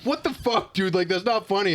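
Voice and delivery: high, whiny mock outrage; mock angry roommate. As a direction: imitate his offended complaint. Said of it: "he was like".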